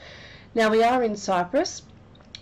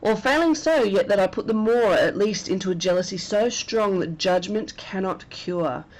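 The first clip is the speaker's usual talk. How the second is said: dramatic verse reading. Acted. Reads Iago's soliloquy aloud.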